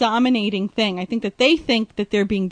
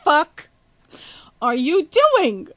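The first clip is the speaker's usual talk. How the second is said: higher, louder quote broken by laughter; laughing what-are-you-doing; laughing disbelief; 5 semitones higher, 4 dB louder, slower than usual. Retold or imitated. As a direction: relive the shock through giggles. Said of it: "I was like".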